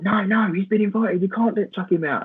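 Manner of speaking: lightly voiced fans defending him; imitating the fans. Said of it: "they were like".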